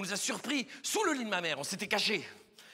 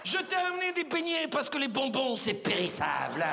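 lovestruck woman; 2 semitones higher than usual. Acted. Oula brings Roger doughnuts, lovestruck and theatrical.

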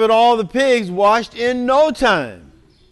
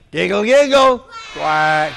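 loud chant; call-and-response shout; 4 dB louder than usual. Shown as a demonstration. Reader practising the chant with the audience, shouted. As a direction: shout it out with the kids. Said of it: "Let's practice".

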